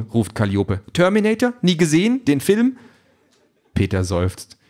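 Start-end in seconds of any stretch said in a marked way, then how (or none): 0.9-2.8 much higher, eager android voice; excited android. A narrator's reading. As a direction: plead that he gets the joke. Calliope explains the joke.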